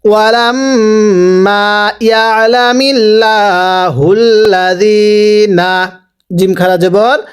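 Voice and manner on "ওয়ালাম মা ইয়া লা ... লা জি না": slow, sustained chant with long vowels; voiced-out recitation. Shown as a demonstration. Teacher asks to read aloud, slow sustained recitation. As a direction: sound it out, stretching লা and জি. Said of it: "আওয়াজ দিয়ে পড়ব".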